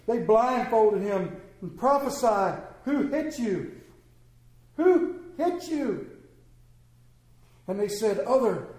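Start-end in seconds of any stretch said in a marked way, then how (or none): 2.8-3.8 a lightly voiced taunt; mocking. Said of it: "began mocking". 4.8-6.1 high, slow, drawn-out jeer; mocking taunt. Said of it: "began mocking".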